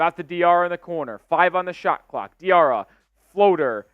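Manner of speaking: steady live basketball call; play-by-play. Real, not acted. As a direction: track each pass as it happens.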